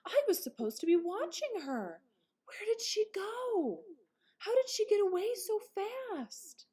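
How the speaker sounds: high, worried pleading; rising panic in a young voice; big brother realising he lost his sister; panicked. A narrator's reading. Ralph panics over lost sister.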